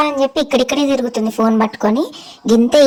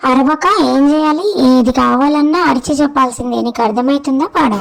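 cheeky sulky pet voice; a lightly put-on sassy pet; voiced pet; 3 semitones higher than usual. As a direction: talk back like a spoiled pet. Pet talks back to owner.

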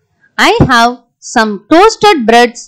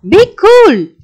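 cheering up; 5 semitones higher than usual. Acted. Friend cheers up crying Hari.

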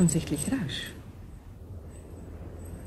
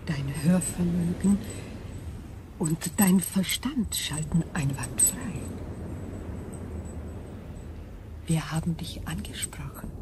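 eerie crystal voice; 7 dB quieter than usual. Acted. Crystal being speaks.

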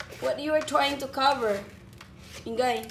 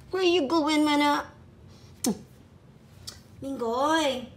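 pet talk; 3 semitones higher than usual. Real, not acted. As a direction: coo at the little one. Mother cooing at her pets.

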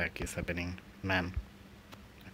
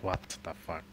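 normal talking voice

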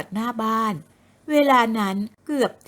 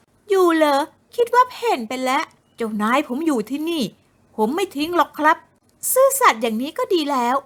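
put-on higher, haughty young woman's voice; bossy young woman; 5 semitones higher than usual.

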